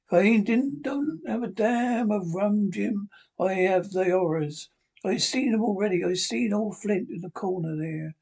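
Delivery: a hint of a desperate pirate bargaining; old sea captain. Captain bribes Jim for a noggin, lightly voiced desperate seaman.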